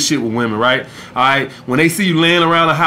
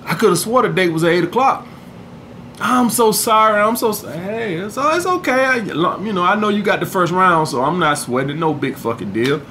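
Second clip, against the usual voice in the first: softer, cool, teasing; understated sarcastic calm; calm sarcasm; 3 dB quieter than usual. Shown as a demonstration. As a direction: keep it cool and a little mocking. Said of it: "Or you could tap your watch".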